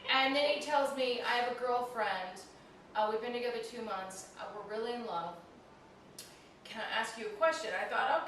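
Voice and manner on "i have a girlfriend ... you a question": lightly imitated Indian accent; a loose attempt at an Indian accent. Cab driver confiding about his girlfriend, mock Indian accent. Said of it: "it's the worst Indian accent".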